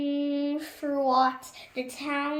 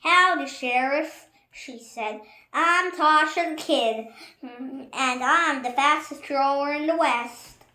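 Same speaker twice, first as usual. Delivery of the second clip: loud, brash cowgirl swagger; a cocky kid calling out the sheriff; lightly voiced brash gunslinger; bold gunslinger; 7 dB louder than usual. Gunslinger kid introduces herself.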